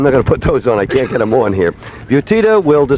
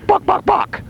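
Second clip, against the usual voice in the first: very high, squawky clucks; chicken clucking; 3 dB quieter, slower than usual. Pretend. Clucks ending the demo impression.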